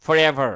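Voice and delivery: forever with a short schwa in the middle; pronunciation demo. Shown as a demonstration. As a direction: say forever with a light uh sound. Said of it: "উচ্চারণটা একটু অ্যা উচ্চারণ হবে".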